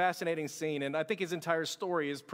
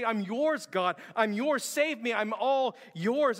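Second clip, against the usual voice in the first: raised-pitch retold plea; crying out; 4 semitones higher, 3 dB louder, slower than usual. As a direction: imitate an earnest cry of surrender to God. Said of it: "he would just cry out".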